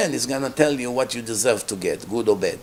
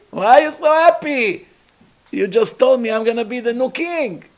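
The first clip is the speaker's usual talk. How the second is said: mock surprise; 7 semitones higher, 3 dB louder than usual. Mock question to Yoshua.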